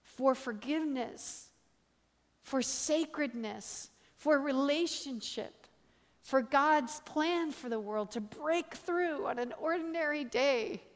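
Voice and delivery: drawn-out, emphatic sermon climax; preaching. Acted. Preacher drawing the lesson from a friend's vision, impassioned preaching.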